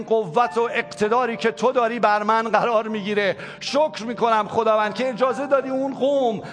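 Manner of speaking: worship prayer that swells to a passionate cry; پرستش و دعای پرشور; fervent prayer. Acted. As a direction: pray aloud to God, building in fervour, then softening. Leads congregation in prayer over music.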